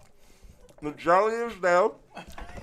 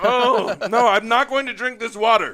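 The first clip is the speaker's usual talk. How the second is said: laughing shout; 2 semitones higher, 4 dB louder than usual. Real, not acted. Laughing refusal during challenge.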